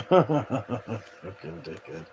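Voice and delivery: laughing through the insult; giggling put-down. Real, not acted.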